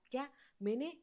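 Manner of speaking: mildly puzzled, rising question; lightly questioning echo. A narrator's reading. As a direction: ask it back, pitch lifting a little. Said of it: "प्रश्नार्थीच त्याला म्हणतात".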